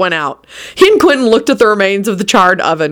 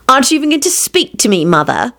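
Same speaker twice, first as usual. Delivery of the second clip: put-on whining old woman; 6 semitones higher than usual. A narrator's reading. Loretta whining.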